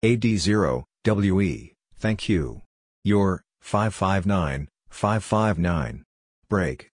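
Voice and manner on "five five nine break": ordinary talk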